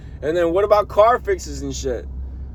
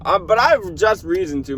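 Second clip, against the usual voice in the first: crying; 4 semitones higher, 4 dB louder than usual. Real, not acted. Venting, near tears.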